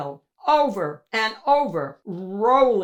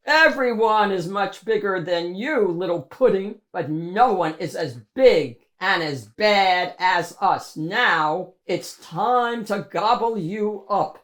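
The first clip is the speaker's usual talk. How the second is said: menacing monster; 3 dB louder than usual. Acted. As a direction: threaten the little pudding. Monster threatens Mo.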